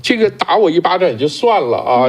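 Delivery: half-acted Ah Q complaining he's looked down on; voicing Ah Q. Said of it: "就像那阿Q似的".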